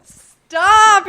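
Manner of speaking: sharp loud yell; shouting stop. Real, not acted. Playful protest.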